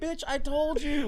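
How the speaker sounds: drawn out, deadpan I-told-you; slow told-you-so. Retold or imitated. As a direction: rub it in slowly. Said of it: "I was like".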